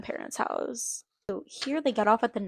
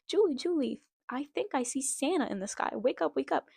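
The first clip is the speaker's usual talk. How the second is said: excited; 4 semitones higher than usual. Acted. Boy waking sister to see Santa.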